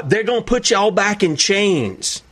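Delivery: slow, lightly mimicked politician's put-on accent; mock a pandering accent, drawn out; put-on Biden accent. Preacher mocking a politician pandering to an assembly, in a put-on accent. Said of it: "Puts on this, this accent".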